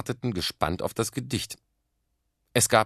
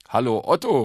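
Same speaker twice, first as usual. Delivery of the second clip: cheerful loud greeting, pitched higher; fröhlicher Ruf; 4 semitones higher, 8 dB louder than usual. A narrator's reading. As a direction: call out happily to the boy. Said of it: "rief er fröhlich". (fröhlich und laut gerufen)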